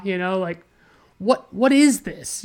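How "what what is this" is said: higher, slow, incredulous question; baffled exasperation. Real, not acted. Reviewer baffled by a nonsensical scene, exasperated. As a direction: stretch it out in disbelief.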